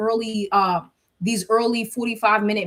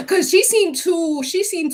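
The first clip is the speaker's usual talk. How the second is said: higher and slow, laughing as she talks; 8 semitones higher, slower than usual. Real, not acted. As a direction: chuckle through the words. Laughs while explaining.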